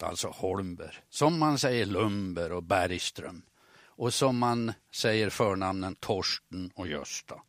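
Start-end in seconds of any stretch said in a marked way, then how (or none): 0.3-1.0 "Holmberg" with Norrland acute word accent. Shown as a demonstration. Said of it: "uttala det med akut accent". 1.9-3.4 "Lundberg" and "Bergström" with acute word accent; Norrland acute accent. Shown as a demonstration. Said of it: "uttala det med akut accent".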